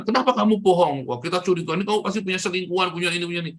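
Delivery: mock suspicious questioning; suspicious accusation. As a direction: confront a partner you suspect, pitch up. Voicing a suspicious spouse's accusation.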